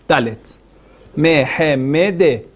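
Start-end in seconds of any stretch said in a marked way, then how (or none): 1.1-2.5 "Mehemede" spelled out slowly, syllable by syllable; careful teacher pronunciation of "Mehemede"; slow demo pronunciation. Shown as a demonstration. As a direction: sound out "Mehemede" with each vowel clear. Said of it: "usted lo puede pronunciarlo".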